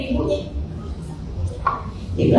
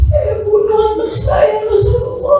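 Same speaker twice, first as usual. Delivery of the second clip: high, sing-song wailing preaching; raised chanting preacher's lament; impassioned sermon wail; 6 semitones higher than usual. Acted. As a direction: cry the story out in a lilting lament. Father's confession continues.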